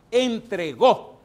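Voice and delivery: emphatic shout. Acted. Preacher stressing God's handing over.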